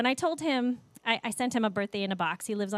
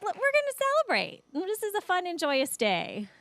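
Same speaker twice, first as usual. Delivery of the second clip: excited announcing; 7 semitones higher than usual. Retold or imitated. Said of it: "I was like".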